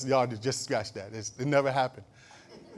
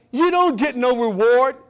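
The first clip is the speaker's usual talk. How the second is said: "You don't get no reward" belted high and loud, slowly drawn out; loud, slow preaching; 11 semitones higher, 11 dB louder, slower than usual. Shown as a demonstration. Preacher quoting Jesus to the church, loud and slow. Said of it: "Jesus said".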